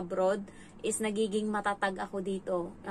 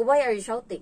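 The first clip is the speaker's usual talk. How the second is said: louder mock scolding, retold; retold sharp rebuke; 2 semitones higher, 8 dB louder than usual. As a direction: snap back at the shouting child. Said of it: "Sabi ko".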